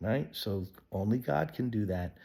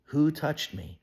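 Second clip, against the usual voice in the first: louder, searching call to the crowd; 6 semitones higher, 5 dB louder than usual. Acted. Jesus calling out to the crowd, searching. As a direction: ring it out over the crowd.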